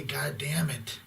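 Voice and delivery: "God damn it" hissed unvoiced and intense; intense whisper. Shown as a demonstration. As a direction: press "God damn it" out as a tense, breathy hiss. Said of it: "I'm, I'm intense".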